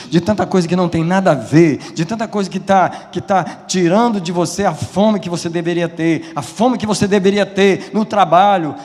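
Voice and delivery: loud, driving sermon rising in pitch; preaching at full force. Real, not acted. Preacher warning church about lost hunger for God, building fervently. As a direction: build relentlessly into a fast, high pulpit cry.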